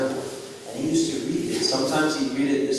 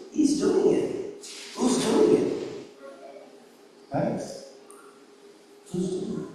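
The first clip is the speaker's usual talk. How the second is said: slow, hushed whisper of wonder; 7 semitones higher, 3 dB quieter, slower than usual. Real, not acted. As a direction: breathe the question, barely voiced. Wondering who keeps him breathing.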